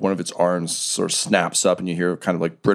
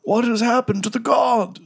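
unearthly voice. Acted. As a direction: stretch it out like something long dead waking. GM voices ancient creature.

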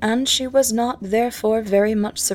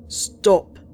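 louder called-out stop; distant shout; 6 dB louder than usual. Acted. Captain calling after the fleeing sisters, shouting. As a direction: call out to halt them from far off.

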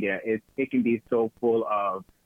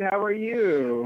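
breathy vintage purr; 9 semitones higher, slower than usual. Pretend. Greeting banter in put-on voice.

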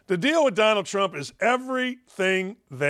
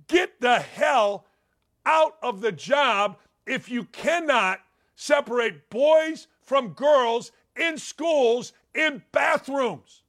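angry telling-off; 4 semitones higher, much slower than usual. Pretend. Imagined angry telling-off of school superintendents.

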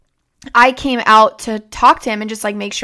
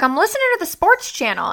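imitating dad; 8 semitones higher than usual. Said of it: "he was like".

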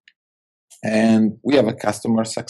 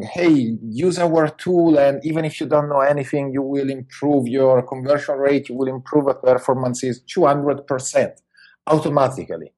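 mock sales pitch; 3 semitones higher than usual. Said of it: "I see lots of people saying".

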